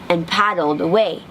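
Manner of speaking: ordinary delivery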